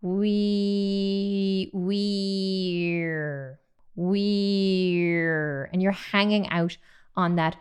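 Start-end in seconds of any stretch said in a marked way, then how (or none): 0.0-5.7 "weir" held long, the E sliding slowly into R; sustained E melting into R in "weir"; E gliding to R. Shown as a demonstration. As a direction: stretch "weir" out on one smooth breath. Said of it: "The E then is moving to the R".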